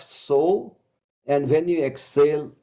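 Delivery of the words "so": drawn-out so. Shown as a demonstration. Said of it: "When you inhale and bring arms up".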